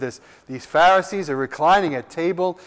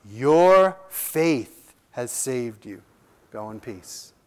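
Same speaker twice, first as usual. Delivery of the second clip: tender blessing; 4 semitones lower, much slower than usual. Acted. Jesus sends the woman away.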